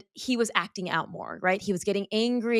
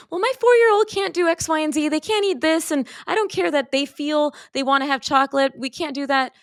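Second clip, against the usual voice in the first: mock-stern parent listing what is forbidden; strict parent; 7 semitones higher than usual. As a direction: play the rule-bound parent laying down limits.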